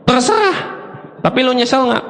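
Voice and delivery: imitating a wife's easy, instant answer; high-pitched, casual retort as the wife; offhand wife's reply. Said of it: "amat sangat gampang dan super cepat jawabnya".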